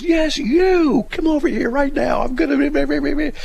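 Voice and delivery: loud, high mock-furious shout; imitated yelling. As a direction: imitate an irate man losing patience, trailing into gibberish. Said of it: "This guy's yelling at me".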